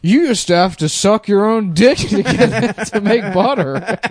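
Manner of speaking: put-on high, loud grumpy old-timer; cranky old guy lecturing kids; old man voice. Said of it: "old guys would be like".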